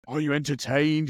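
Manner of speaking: high, rousing arena call; gladiator shout. Retold or imitated. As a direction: shout it to the crowd. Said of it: "you're like".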